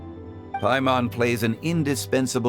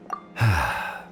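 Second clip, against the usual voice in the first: short, lowered sigh; low sigh; 4 semitones lower than usual. Acted. Zhongli left behind after farewells, low sigh. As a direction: let the breath fall out.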